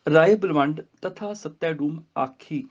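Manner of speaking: slow recitation halting after ਆਖੀ; pause after ਆਖੀ. Shown as a demonstration. Teacher showing the resting point, slow line stopping after ਆਖੀ. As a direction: recite slowly and rest on ਆਖੀ. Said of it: "ਇੱਥੇ ਵੀ ਫਿਰ ਰੁਕਣਾ ਹੈਗਾ".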